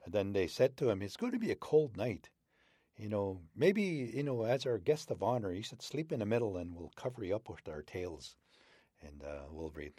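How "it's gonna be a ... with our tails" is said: wolves inviting. Acted. Wolves inviting wolverine to sleep in the middle, friendly voice. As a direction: flatter the guest of honor.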